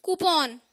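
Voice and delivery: कूपन joined up as "koo-pawn"; whole word. Shown as a demonstration. Teacher putting it together, कूपन as "koo-pawn". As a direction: say कूपन in one piece with a full "pawn". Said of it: "पूरा क्या बना?".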